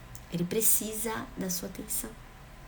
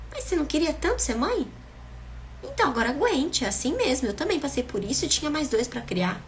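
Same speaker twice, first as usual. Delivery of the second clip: higher, louder, dismissive mother's scolding; 7 semitones higher, 4 dB louder than usual. Retold or imitated. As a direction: brush off the daughter's complaint like a harsh mom. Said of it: "sua mãe, por exemplo, chega e fala". (mãe ríspida imitada, mais aguda e mais alta)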